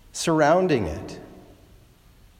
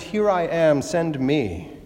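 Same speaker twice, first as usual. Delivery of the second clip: resolute, certain declaration of readiness; firm self-confident; slower than usual. Retold or imitated. Preacher quoting Isaiah's confident answer, firm and resolute. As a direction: say it like a man sure of himself. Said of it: "firm and resolute and self-confident".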